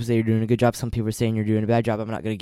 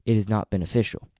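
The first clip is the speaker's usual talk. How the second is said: reading an essay; 2 semitones higher than usual. Acted. Reads essay aloud.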